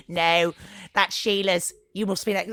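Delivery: amateurish imitation of Scouse; bad Scouse accent. Mum imitating a neighbour redirecting her daughter, bad Scouse accent. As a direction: put on a poor Scouse accent. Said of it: "that's a terrible Scouse accent".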